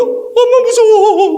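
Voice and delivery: put-on high, frightened child's cry; frightened little daughter. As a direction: cry out like a scared child alone. 혼자 들어가는 딸 흉내. (혼자 들어가며 엄마를 부르는 겁먹은 아이 목소리)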